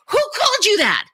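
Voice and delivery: high shouting disbelief; outraged shout. Retold or imitated. Rebutting the man's excuse, high outraged shout. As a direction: shout it back incredulous. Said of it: "And I said".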